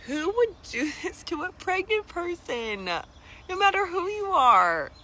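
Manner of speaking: incredulous outrage. Real, not acted. Outraged rhetorical question.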